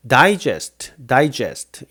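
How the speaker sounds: digest with a clear "die" at the start; die pronunciation. Shown as a demonstration. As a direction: say digest as die-JEST, firmly. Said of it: "요거는 digest로 발음을 하죠".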